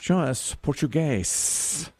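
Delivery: slow, drawn-out host call; lingering game-show "show us"; game-show reveal call. Pretend. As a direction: stretch the answer out for the board. Calling for the board reveal.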